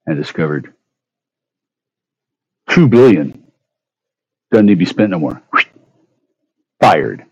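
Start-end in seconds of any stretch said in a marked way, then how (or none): 2.7-3.4 high "two" hit hard; stressed figure. Real, not acted. Repeating the sum.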